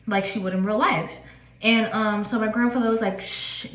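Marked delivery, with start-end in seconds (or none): 3.2-3.7 a breathy, unvoiced shush; whispered shush. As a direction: hush her in a secretive whisper. Grandfather's ghost hushing her.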